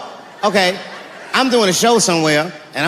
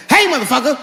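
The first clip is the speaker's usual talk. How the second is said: menacing threat; 6 semitones higher than usual. Acted. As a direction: warn the burglar with a shotgun cock. Threatening the intruder with shotgun.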